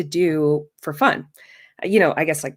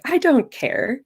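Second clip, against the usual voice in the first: curt teacher; 8 semitones higher, slower than usual. Retold or imitated. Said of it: "the teacher's like".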